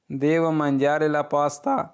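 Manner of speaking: very slow, each syllable clear; slow model sentence. Shown as a demonstration. Teacher reading the Italian phrase for students, very slow. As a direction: read it out slowly for learners to repeat. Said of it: "आप किसी को इस तरह बता सकते हैं".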